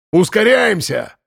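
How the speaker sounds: громкий высокий окрик; крикни, подгоняя всех. A narrator's reading. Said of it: "крикнул Архип". (громкий крик)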